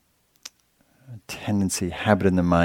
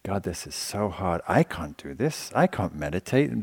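mild, softer self-doubting murmur; doubting inner voice; 6 dB quieter than usual. Retold or imitated. Meditator doubting herself in her head, softer mild murmur. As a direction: voice the mind's quiet doubt to yourself. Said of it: "internalized form of".

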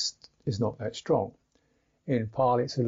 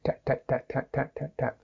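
crisp "tap, tap, tap" like a drumstick; sharp tapping; 3 dB quieter than usual. Shown as a demonstration. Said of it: "The D is the drumstick".

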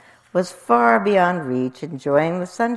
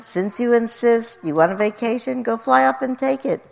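raised-pitch, pestered elephant; exasperated elephant consent; elephant giving in; 7 semitones higher than usual. A narrator's reading. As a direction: give in with a raised voice. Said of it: "said the elephant".

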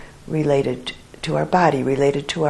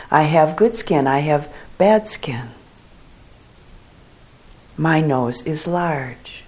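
guided reflection. Acted. Teacher listing self-identities for meditators to consider, guided reflection. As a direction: offer each short statement, then leave silence.

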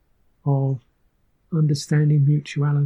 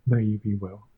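gentle blessing; 4 semitones lower than usual. Shown as a demonstration. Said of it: "all I want to do is say".

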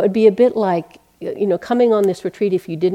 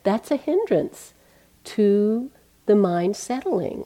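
teacher's firm correction; 4 semitones higher, slower than usual. Retold or imitated. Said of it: "He said".

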